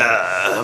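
low, soft "ugh"; disgusted groan. Retold or imitated. Rapper cringing at old album, disgusted groan. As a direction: groan at your own old recording. Reacting to own old recordings.

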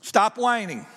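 firm command, said as an order. Shown as a demonstration. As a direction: order the congregation to quit it. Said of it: "in kind of a commanding way".

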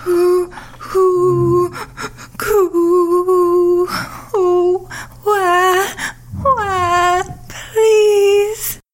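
sobbing plea; tearful pleading. Acted. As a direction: beg through tears. Daughter begging, threatened by father.

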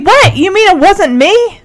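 high-pitched mock indignation; acted affronted surprise; upset disbelief. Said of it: "So Kate's upset".

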